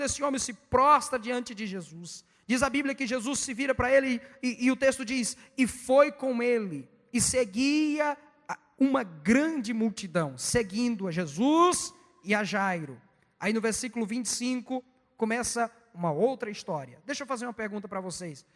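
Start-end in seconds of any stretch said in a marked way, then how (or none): 5.6-13.0 slow, drawn-out verse reading; scripture reading. Real, not acted. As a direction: read it out phrase by phrase. Reads scripture aloud slowly. (leitura bíblica lenta e solene)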